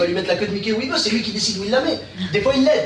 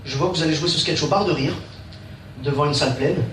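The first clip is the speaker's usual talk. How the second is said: astrologue; 5 semitones lower than usual. Acted. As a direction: intone it like a seer at a crystal ball. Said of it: "commencé à regarder dans sa boule". (voix grave de voyant)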